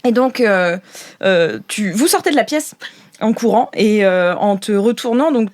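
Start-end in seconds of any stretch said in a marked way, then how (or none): none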